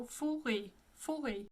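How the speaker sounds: Fauré with closed o and French r; French pronunciation. Shown as a demonstration. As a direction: say Fauré softly with closed vowels. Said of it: "closed O".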